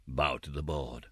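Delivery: a low, slow command from the beadle; lightly voiced stern beadle, drawn out; beadle's order. A narrator's reading. Beadle ordering the orphan boy to bow, low and slow.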